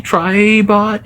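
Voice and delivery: high, unsure rising question. Real, not acted. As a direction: ask the name, not sure of it. That's his name.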